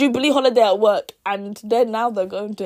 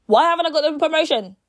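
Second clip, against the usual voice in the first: distraught; 5 semitones higher, 4 dB louder than usual. Retold or imitated. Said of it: "she's obviously distraught".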